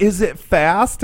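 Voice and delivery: high, drawn-out question as mom; lightly voiced mom. Mom asking son about his car, lightly imitated. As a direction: imitate an intrigued mom, stretching it out.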